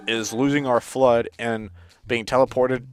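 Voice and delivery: talking through hiccups; breath caught by hiccups. Real, not acted. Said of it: "Sorry, I have the hiccups".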